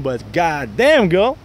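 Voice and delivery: flirty demo.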